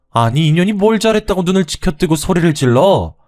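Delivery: high, loud, bitter accusation; blaming mother-in-law. Acted. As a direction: spit the blame at her.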